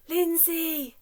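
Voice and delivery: high, loud shouted name; big shout. Shown as a demonstration. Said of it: "so loudly that you can't even hear".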